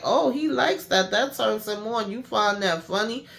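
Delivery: retold mock amusement; mocking taunt. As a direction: taunt him, pitch lifted. Acted interrogator taunting a laughing captive.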